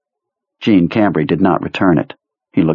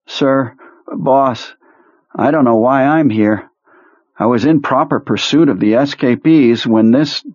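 higher, pleading soldier voice; whiny nervous officer; 4 semitones higher than usual. Acted. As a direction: protest your innocence, higher and anxious. Perlmutter whining.

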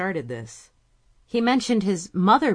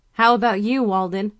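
calling out; 4 semitones higher, 7 dB louder than usual. A narrator's reading. Calling across the office.

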